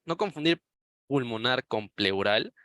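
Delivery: pulmonar and pleural set apart slowly and deliberately; slow down so pulmonar and pleural are not mixed up; warning emphasis. Shown as a demonstration. Teacher warning students not to confuse the terms, slow and pointed.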